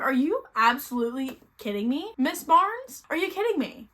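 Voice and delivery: incredulous outrage. Retold or imitated. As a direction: demand an answer from the absent author. Acts out outrage at author.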